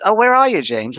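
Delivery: retelling a friend's startled greeting, surprised. Retold or imitated. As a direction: cry out her name in amazement. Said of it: "and she goes".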